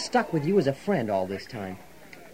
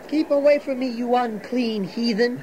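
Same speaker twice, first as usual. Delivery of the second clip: haughty holy man, much higher; mocking Zadok; 5 semitones higher than usual. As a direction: look down your nose at the sinners. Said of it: "the old Pharisee Zadok".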